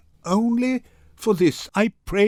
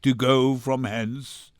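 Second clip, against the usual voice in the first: put-on broken old man; 7 semitones lower than usual. Shylock defeated in court.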